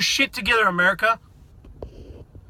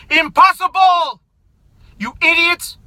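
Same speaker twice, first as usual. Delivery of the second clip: emphatic shout; 4 semitones higher, slower than usual. Real, not acted. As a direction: stretch the word out in outrage. Ranting at Catholic Democrats.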